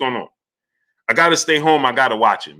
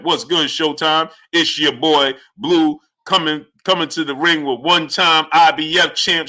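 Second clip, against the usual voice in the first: ring announcer. Pretend. Streamer mock-announcing the boxer's ring walk. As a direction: introduce the fighter like an announcer. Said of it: "you know how I do".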